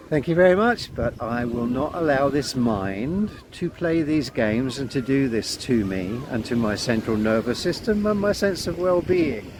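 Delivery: firm refusal. Shown as a demonstration. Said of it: "I've gotta think".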